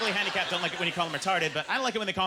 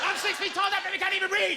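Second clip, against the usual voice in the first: put-on baby daddy voice; 10 semitones higher than usual.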